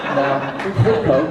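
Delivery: chuckling as he says goedkoop; laughing through it. Real, not acted. Comic explaining a Dutch word, laughing. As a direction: giggle the word goedkoop out slowly.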